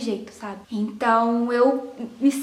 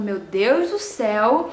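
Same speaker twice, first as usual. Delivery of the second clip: anxious sigh; 3 semitones lower, slower than usual. Retold or imitated.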